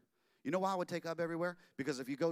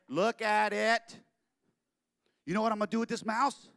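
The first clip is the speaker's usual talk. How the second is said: excited; 6 semitones higher, 8 dB louder than usual. Acted. Walt pitching the mouse to his wife, excited. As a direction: sell the dream hard.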